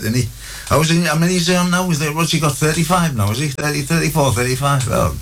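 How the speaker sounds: chatty Hartlepool doorman greeting, pitch bouncing; Hartlepool accent. Acted. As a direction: play a gushing Hartlepool ticket man. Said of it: "this is in the Hartlepool accent".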